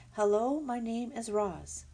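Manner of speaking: robot voice. Acted. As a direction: speak like a calm robot. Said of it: "the robot spoke to the animals".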